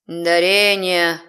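slow drawn-out demon voice; thoughtful drawl. Acted. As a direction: stretch the word out, musing. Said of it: "задумчиво протянул страж грани".

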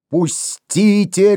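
slow drawn-out roar; рёв. A narrator's reading. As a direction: bellow to be let go. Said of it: "ревел Дембо".

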